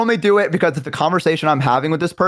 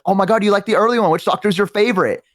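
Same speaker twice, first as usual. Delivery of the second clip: excited fan; 5 semitones higher than usual. Retold or imitated. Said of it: "She's like".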